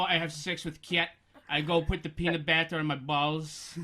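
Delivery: mock Eastern European accent; deliberately hideous, thick foreign accent; Borat. Shown as a demonstration. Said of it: "I sound like either Borat".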